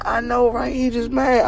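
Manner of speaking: high-pitched imitation of a woman agreeing; high mock-female aside; imitating amused lady. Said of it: "she turned around going".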